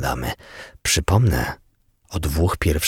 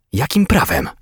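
higher-pitched, restrained yell; indignant yell; 7 semitones higher than usual. A narrator's reading. Detective protests being taken off the case, mildly yelled. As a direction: protest with a mild, raised-pitch outcry. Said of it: "wrzasnął Ross".

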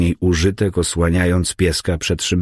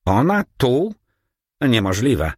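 startled, high fearful question; frightened; 6 semitones higher than usual. A narrator's reading. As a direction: gasp it out in fear. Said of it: "Drżał ze strachu".

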